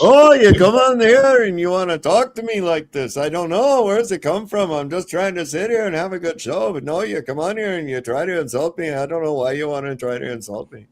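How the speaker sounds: mock Jewish accent, taking offense at a friend; hammed-up Jewish accent. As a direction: play a wounded old Jewish man, high and indignant. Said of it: "that sounded Jewish".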